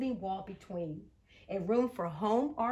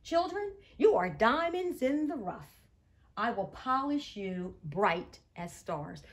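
sing-song teacher voice. Acted. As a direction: sing it out to the children. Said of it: "Miss Shaw has a sing-song voice".

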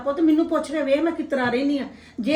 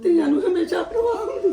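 higher, half-laughing through tears; tearful crying; 4 semitones higher than usual. Acted. Mother to daughter, crying through a laugh. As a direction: choke it out between sobs. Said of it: "ਚੁੱਪ ਕਰੋ ਤੁਸੀਂ".

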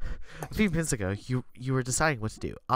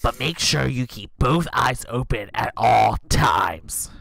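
grandma voice; 2 semitones lower, 7 dB louder, slower than usual. Acted. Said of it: "Gran's voice".

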